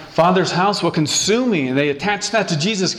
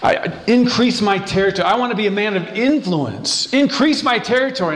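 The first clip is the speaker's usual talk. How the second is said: earnest, higher-pitched prayer; zealous, passionate plea; 4 semitones higher than usual. Acted. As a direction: plead with God, rising in pitch as the zeal builds. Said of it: "a zealous, passionate guy that says".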